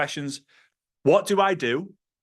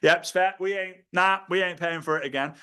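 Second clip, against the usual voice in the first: relieved; 3 semitones higher than usual. Retold or imitated. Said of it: "I'm like".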